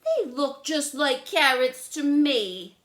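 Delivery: high, loud stubborn list; picky girl listing foods she won't eat; fussy little sister. Acted. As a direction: rattle off everything she refuses. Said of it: "said Lola".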